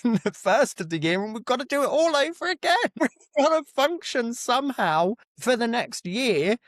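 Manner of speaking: laughing it out. Real, not acted. To the co-host, laughing at facing another year.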